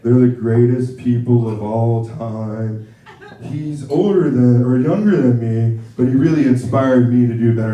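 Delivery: slow, drawn-out, earnest toast; milk each word like a clumsy sincere toast; slow sappy best-man speech from a cousin; rambling cousin. Retold or imitated. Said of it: "cousin that didn't really do much".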